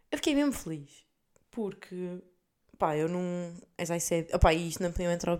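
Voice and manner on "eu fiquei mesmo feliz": higher, emphatic "fiquei mesmo feliz"; repeated with joy. Real, not acted. To viewers, repeating how happy she was, higher. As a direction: say it again more gleefully.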